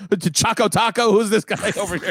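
high, puzzled butchered name; fumbling dad. Retold or imitated. Son imitating dad mispronouncing a Finnish name, high. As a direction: mangle a foreign name. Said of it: "He's going".

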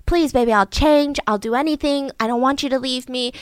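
mock begging of an ex-husband. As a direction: plead to be taken back. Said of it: "begs for her back".

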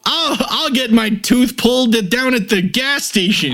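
mocking a sneering anti-intellectual; mocking anti-expert guy. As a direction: sneer at the doctor as a snob. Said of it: "people are like".

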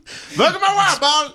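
sheriff voice. Retold or imitated. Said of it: "the guy's like".

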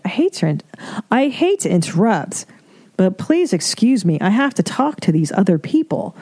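overly polite excuse, lightly put on; mock politeness. Reader mocking the article's polite way to interrupt, mock politeness. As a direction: excuse yourself with prim mock courtesy. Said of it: "then politely say".

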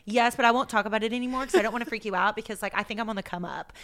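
quick, breezy run-on reply; fast-talking, energetic. Retold or imitated. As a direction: hurry past it so nobody worries. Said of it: "so fast talking and energetic".

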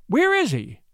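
high-pitched anxious question; alarmed cry. A narrator's reading. Woman asks after the missing deputy, crying in alarm. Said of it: "she cried in alarm".

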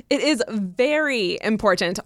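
VERY leaned on, slow and deliberate; slow down and underline VERY important; all-caps emphasis. Retold or imitated. Co-host reading out a listener's letter, all-caps emphasis. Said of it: "all caps".

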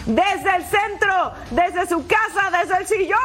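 rising playful build, each desde stressed; breakneck goal commentary. Acted. Playful escalating list.

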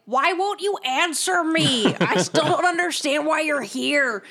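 hammed-up frustrated shouting; acted yell. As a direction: yell it high, pleading for an answer. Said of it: "and I just yell".

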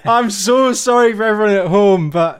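apologising through laughter; laughing. Real, not acted.

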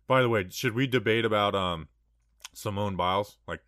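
upbeat podcast ad read; hyped betting ad. Acted. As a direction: sell it like a sponsor spot. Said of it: "You crushed that ad read".

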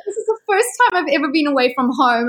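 high, fast, tearful wail; mock crying. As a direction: fake tears about being far from home. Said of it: "And I was just crying".

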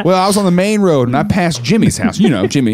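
lightly voiced small-town storyteller; small-town local. Small-town caller explaining a route, a hint of local chattiness. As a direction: chat as if everyone knows the place. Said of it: "That's how small town people talk".

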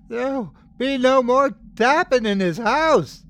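high, loud enraged yell; furious high-pitched outburst; terrible trembling yell. A narrator's reading. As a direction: yell it out high, voice at breaking point. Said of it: "yelled in a terrible, trembling voice".

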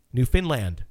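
Newfoundland, land stressed and open; NewfoundLAND, lean into land. Shown as a demonstration. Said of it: "with the emphasis on land".

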